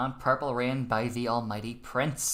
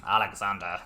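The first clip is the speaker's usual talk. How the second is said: Boris impression; 6 semitones lower than usual. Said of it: "It's my Boris impression".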